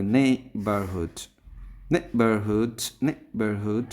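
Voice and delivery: নেইবারহুড with নেই punched; stress on first syllable. Shown as a demonstration. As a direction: hit the opening নেই of নেইবারহুড. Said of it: "নে এর পরে আমরা stress দেব".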